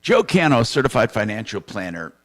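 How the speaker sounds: announcer-style lead-in to a financial segment; strong attack easing into an even read; radio sponsor intro. Real, not acted. Host introduces next sponsor.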